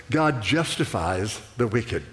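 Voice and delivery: low, slow and weighty, each word placed; slow scripture quote. Acted. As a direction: let the verse land slowly and gravely. Quoting scripture slowly, emphatically.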